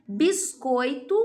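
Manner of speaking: Biscoito drawn out syllable by syllable; slow, clear word. Shown as a demonstration. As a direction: stretch Biscoito for the kids. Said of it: "teacher says example word slowly".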